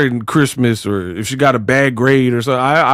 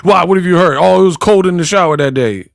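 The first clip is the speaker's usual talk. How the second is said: pitched-up comic excuse-making; mock defensive; 4 semitones higher than usual. Volunteering information nobody asked for, mock defensive. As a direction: imitate someone over-explaining unprompted. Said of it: "Just volunteering information".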